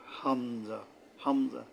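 হামজা said firmly from the base of the throat; firm articulation. Shown as a demonstration. Teacher models the letter, firm throat-based হামজা. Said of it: "শক্তভাবে আদায় হবে".

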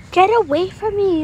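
loud, scornful brush-off, half-acted; mean shout. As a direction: shove the beggar off with a loud snap. Mean person shoos beggar away.

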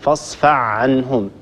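فاصفع عنهم with ع replacing ح, a bit slow; wrong version. Shown as a demonstration. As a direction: show the error, ح turned to ع. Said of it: "ولا نقول".

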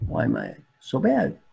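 lightly voiced drowsy question; mild acted sleepiness; sleepy monk. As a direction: ask as if half awake. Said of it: "The sleepy monk says".

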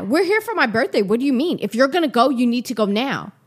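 indignant retort. Retold or imitated. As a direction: imitate an affronted partner laying down terms. Ex's retold quarrel over birthday.

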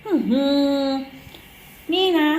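high, exasperated mock scolding of a naughty dog. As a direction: tell off the dog like a fed-up mom, pitched high. Mother scolds dog Latte. (ดุหมาเสียงสูงแบบแม่บ่น)

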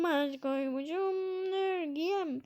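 mock crying. Gamer re-singing the line in a mock-weepy voice. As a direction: sing it again as if about to cry. Same line, softer and tearful.

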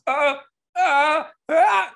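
high, loud, strained ah sounds; rising excited ah-ah-ah squeals; excited fan squeals. Retold or imitated. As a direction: imitate an overwhelmed fan squealing. Imitating the fan's noises.

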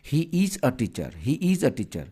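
is stressed in he is a teacher, first take slow; slow and clear on is; teaching demo. Shown as a demonstration. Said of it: "তুমি এটাকে পড়বা". (is শব্দে জোর দিয়ে ধীরে পড়া)

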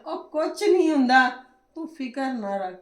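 slow, laughing teasing; amused slow teasing through a laugh; laughing tease. Real, not acted. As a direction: chuckle as you call her a scaredy-cat. Teasing her scared sister-in-law.

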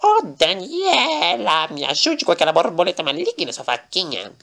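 bem mais agudo, Ô arrastado, meio choroso e rindo; Lorenzo pedindo socorro. Acted. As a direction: pede ajuda num lamento esganiçado. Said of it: "O Lorenzo vai falar assim". (Lorenzo implora ajuda a Daniela, voz aguda e chorosa)

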